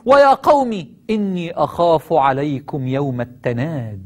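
slow, drawn-out Quranic recitation. Acted. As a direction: stretch the warning out solemnly.

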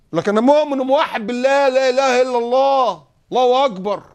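high, loud, hammed-up declaration of faith; mock pious boast. Preacher mocks a believer who protests his faith, loud and high. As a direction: overdo the fake piety loudly.

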